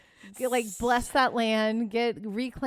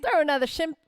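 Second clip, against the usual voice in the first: higher, playful Australian catchphrase; attempted Australian accent; 5 semitones higher, faster than usual. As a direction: have a rough go at Australian. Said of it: "I cannot do an Australian accent".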